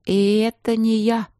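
put-on girl muttering jealously. A narrator's reading. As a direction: grumble it jealously. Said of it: "довольно ревниво пробормотала я".

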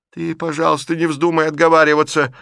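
put-on old aunt confronting her niece; agitated old aunt. A narrator's reading. Aunt scolding Liza about a night meeting, rising to loud reproach.

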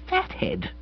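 a very high, choked-back "Fathead," squeezed out softly; forcing "Fathead," through a tight throat; strangled voice. A narrator's reading. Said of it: "speaking in a strange, strangled voice".

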